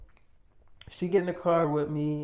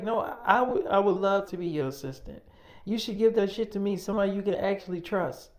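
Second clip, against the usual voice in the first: higher and louder, pushing hard; insistent pleading; 5 semitones higher, 4 dB louder than usual. Retold or imitated. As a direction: insist she deserves it. Girlfriend insists on the job.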